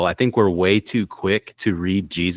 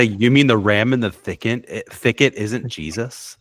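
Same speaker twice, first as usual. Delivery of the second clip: mock-incredulous question, pitched up at the start; sarcastic; 3 semitones higher than usual. Teasing Greg about the ram in the thicket, sarcastic. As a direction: put on sarcastic disbelief. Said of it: "I was gonna be sarcastic".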